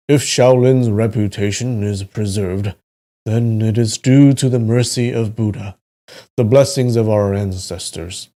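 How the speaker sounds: story narration. A narrator's reading. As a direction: read the tale aloud with deliberate phrasing. Reads the novel aloud.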